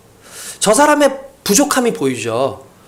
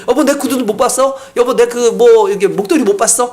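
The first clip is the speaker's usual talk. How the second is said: higher wife asking where things are; wife asking around; 5 semitones higher than usual. Retold or imitated. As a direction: call out for lost shoes. (물건 찾는 아내 목소리)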